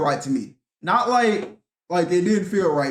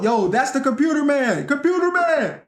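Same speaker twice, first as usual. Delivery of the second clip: imitated crowd yell; 5 semitones higher than usual. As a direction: mimic friends yelling out from the crowd. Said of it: "I'm hearing niggas yell out".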